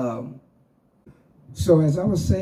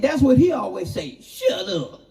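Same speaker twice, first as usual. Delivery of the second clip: laughing; 8 semitones higher than usual. Real, not acted. Laughing while quoting Richard.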